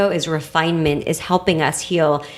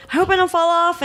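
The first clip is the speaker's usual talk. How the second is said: imitating worried friend; 10 semitones higher than usual. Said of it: "she was like".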